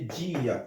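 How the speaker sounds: Dia as JEE-a, i and a apart; Dia with a held i, falling on the a; two syllables. Shown as a demonstration. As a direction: say Dia in two beats, long i first. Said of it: "bay de silab".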